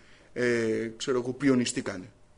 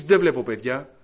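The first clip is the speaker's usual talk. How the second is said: objecting; 10 dB louder than usual. Acted. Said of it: "θα μου πεις".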